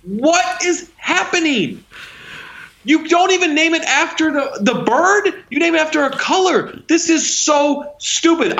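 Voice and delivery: very high-pitched, slow, indignant disbelief; exasperated rant. Real, not acted. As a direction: rant in real outrage over something absurd. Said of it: "I'm even angry at the Cardinals nickname now".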